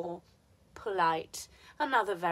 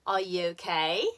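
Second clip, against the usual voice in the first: OKAY climbs at the end; rising question ending on "okay"; rising intonation; 2 semitones lower than usual. Shown as a demonstration. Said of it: "change of intonation is affecting the last content".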